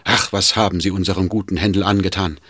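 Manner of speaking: loud, high, fast bitter tirade; distraught outburst. Acted. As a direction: rail against them in despair. Servant rails at master's tormentors.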